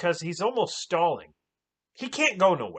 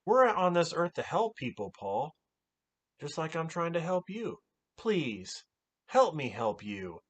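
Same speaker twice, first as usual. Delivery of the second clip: mock calm. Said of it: "talking all calmly".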